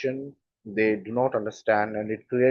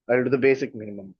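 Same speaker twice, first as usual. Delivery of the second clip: quick, offhand, bare minimum; dismissive tone; faster than usual. Shown as a demonstration. Teacher shows the rude tone of the phrase, quick and offhand. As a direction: toss it off quickly, like you barely care. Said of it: "that is not a good tone".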